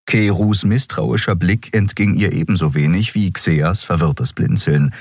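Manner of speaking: plain reading voice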